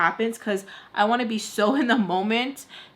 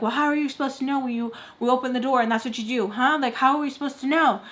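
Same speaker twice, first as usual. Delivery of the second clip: quick, slightly raised mock scolding; retold screaming; 3 semitones higher, faster than usual. Friend defending her to another, mild mock screaming. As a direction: imitate an angry rapid-fire challenge. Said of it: "screaming at her".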